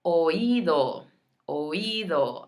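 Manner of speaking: oído as oh-EE-doh, each vowel apart; three-beat oído, oh-EE-doh; separate letters. Shown as a demonstration. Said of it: "saying all the separate letters".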